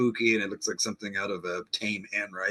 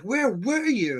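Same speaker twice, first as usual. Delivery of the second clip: high, slow, louder innocent whine; high mock Danny; 12 semitones higher, 3 dB louder, slower than usual. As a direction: play dumb in a high voice. Danny voiced again.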